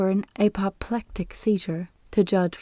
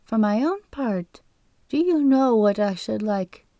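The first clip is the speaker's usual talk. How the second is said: lightly voiced fussy old man, slow on no set phrases; falsetto voice; slower than usual. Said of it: "in a falsetto voice".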